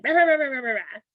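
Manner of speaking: high mock ranting nonsense, rah rah; mocking a daughter's yelling. Mother mimicking her yelling daughter, high and babbling. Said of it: "she was like, again".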